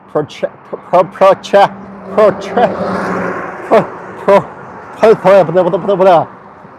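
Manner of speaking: stuck repeating pro with a lisp; tongue trips on pro-; stuttering lisp. Real, not acted. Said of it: "I have a lisp now".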